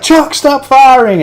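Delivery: high, loud, stretched-out shout; mock frantic yell. Crew begging the gunner to stop, high mock yell. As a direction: yell over gunfire.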